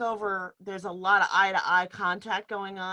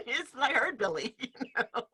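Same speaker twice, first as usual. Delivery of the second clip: laughing; 2 semitones higher than usual. Real, not acted. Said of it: "laughs heard".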